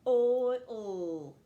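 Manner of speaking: loud model word. Shown as a demonstration. Teacher modelling the word for pupils, loud. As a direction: call out "Oil" to the class. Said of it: "throw out your sounds".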